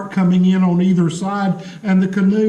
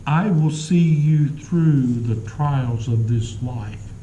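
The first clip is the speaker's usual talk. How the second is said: reassuring Jesus; 3 semitones lower than usual. Retold or imitated. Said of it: "We forget that he's saying".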